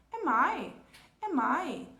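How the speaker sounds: "am I" ligado, M fechando; "am I" conectado em pergunta; linked am I. Shown as a demonstration. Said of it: "a nossa pergunta fica". ("am I" ligado com M pronunciado)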